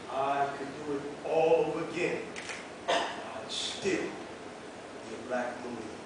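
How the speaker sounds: slow, low and hushed; solemn quote. Retold or imitated. Marine quoting a comrade to close the speech, solemn and quiet. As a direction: draw out the closing words, sinking softly.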